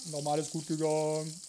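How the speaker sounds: low, calm "Nochmal alles gut gegangen"; relieved. Real, not acted. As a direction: settle down, relieved. (erleichtert ruhig)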